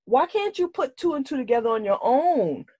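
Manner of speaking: high-pitched mock telling-off; exasperated scolding. Retold scolding of a character.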